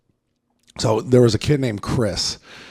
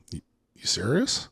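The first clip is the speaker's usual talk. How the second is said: retold unruffled challenge, lifting at the end; cool as a cucumber; 5 semitones higher, 3 dB quieter than usual. Facing a tiny kid who threatens him, coolly incredulous. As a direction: stay cool, question him in mild disbelief. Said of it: "fucking cool as a cucumber".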